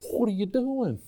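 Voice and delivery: a prophet's hushed whine; pleading prophet. Retold or imitated. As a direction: plead up to the Lord, bewildered. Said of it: "And he's going".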